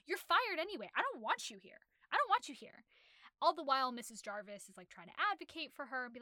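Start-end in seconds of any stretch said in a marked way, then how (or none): 0.1-2.8 mock angry boss. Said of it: "he's like".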